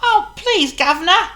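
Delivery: very high squeaky monkey plea; begging the wizard for help; high pleading monkey; Chatter pleading. Acted. Voices Chatter.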